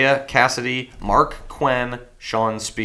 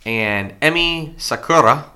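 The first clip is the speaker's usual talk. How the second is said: names read with a light Spanish lilt, louder; mock Spanish tint; 3 semitones higher, 4 dB louder than usual. Reading wrestlers' names with a mock Spanish tint. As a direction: put a playful Spanish spin on the names. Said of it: "I put, like, a Spanish tin on that".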